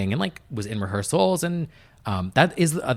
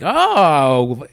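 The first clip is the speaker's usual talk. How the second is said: loud, laughing, higher voice; laughing gloat; 8 semitones higher, 8 dB louder, slower than usual. Retold or imitated. Producer telling Luann's team the tables turned, laughing loudly.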